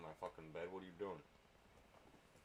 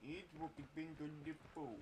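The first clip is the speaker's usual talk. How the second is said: mock announcer; 9 semitones higher, 10 dB quieter than usual. Mocking game announcer.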